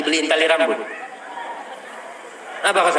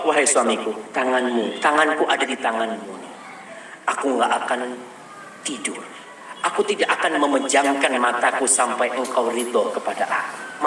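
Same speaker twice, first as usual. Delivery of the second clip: istri membujuk lembut; 4 semitones lower, 3 dB quieter than usual. Retold or imitated.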